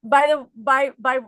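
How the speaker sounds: high, loud incredulous question; amazed friend. Retold or imitated. Friend Mary asking why she isn't miserable, high loud amazement. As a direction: play the stunned friend.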